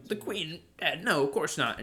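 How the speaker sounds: disbelieving Brit. Acted. Brit told the Queen is dead, disbelieving. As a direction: play a character refusing the news.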